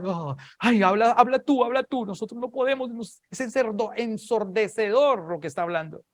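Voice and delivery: high-pitched, panicky pleading; frightened crowd. Acted. Frightened people begging the prophet to speak instead of God, panicky. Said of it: "la gente tenía temor".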